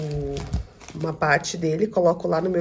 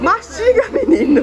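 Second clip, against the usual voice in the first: high, loud laughing coo; 14 semitones higher, 5 dB louder than usual. Real, not acted. Mother laughing at son chewing cookie, high laughing coo.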